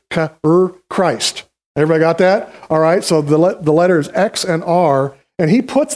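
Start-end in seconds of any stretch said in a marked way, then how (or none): 0.1-1.4 "K" and "R" sounded out one by one, then "Christ"; letter sounds. Shown as a demonstration. Teacher showing how the Greek letters begin Christ's name, "K, R, Christ" sounded out in pieces. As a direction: sound out "K", "R", pausing before "Christ". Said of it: "Chi and Rho in the Greek letters".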